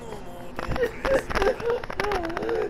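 high, quiet laughing fit; real laughter. Real, not acted. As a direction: break up in high, soft laughter. Laughs while retelling leg scene.

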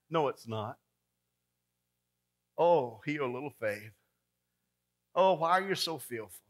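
calm Jesus. Retold or imitated. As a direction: settle them down gently. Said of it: "Jesus answers calmly".

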